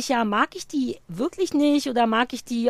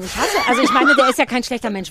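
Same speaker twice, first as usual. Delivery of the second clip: laughing; 4 dB louder than usual. Real, not acted. Laughing while venting.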